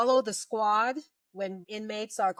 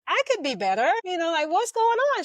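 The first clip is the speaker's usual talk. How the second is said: retold anxious reply; 10 semitones higher, 4 dB louder than usual.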